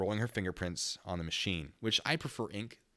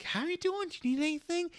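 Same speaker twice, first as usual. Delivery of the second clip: sing-song gentle voice. Retold or imitated. Cop checking on the high woman in a much higher voice. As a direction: coax her like a child.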